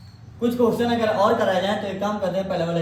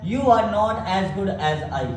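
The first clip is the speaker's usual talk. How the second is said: very slow, word by word, for copying; slow dictation; much slower than usual. Shown as a demonstration. Teacher dictating the example to the class, very slowly. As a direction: spell it out so students can write it.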